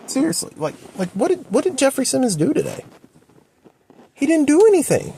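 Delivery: high, rising yell of disbelief; real scream. Real, not acted. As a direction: yell it out in frustration. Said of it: "I kinda just screamed".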